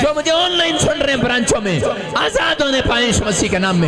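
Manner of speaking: fervent preacher praying at full force; forceful public prayer. Real, not acted. Preacher praying for blessing on their homes, fervent prayer. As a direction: declare each blessing over the crowd, swelling on key phrases. Prays over the women for blessing.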